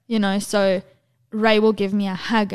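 normal talking voice

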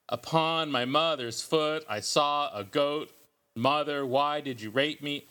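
mock poetry-reading sing-song. Host imitating poets at readings, mock poet voice. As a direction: imitate a solemn poet reciting at a coffee shop. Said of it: "doing their strange little poet voice".

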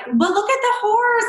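high, gushing protest over the horse; pleading with her fiancé to look at the horse; childlike plea. Retold or imitated. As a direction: whine it up high like a kid distracted by a pony. Distracted by a baby horse.

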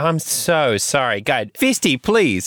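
high, loud pleading. Acted. Owner begging Fisty to stop, high and loud pleading. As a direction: beg the fist to behave.

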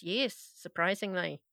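dry sarcastic surprisingly. Real, not acted. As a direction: say surprisingly with mock wonder. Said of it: "I was being sarcastic".

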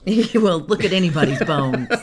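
talking through a laugh. Real, not acted. Co-host cracking up about the sponsor, laughing. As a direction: let the laugh break into the words.

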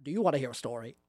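lightly creepy Grinch offer; a hint of sinister storyteller. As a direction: ask it with quiet, creepy relish. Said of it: "less creepy than you are right now".

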